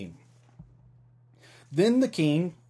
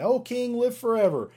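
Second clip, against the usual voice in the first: much higher, ringing call from below; Daniel calls up from the lions' den, much higher; 11 semitones higher, 3 dB louder than usual. Acted. Here comes Daniel saying.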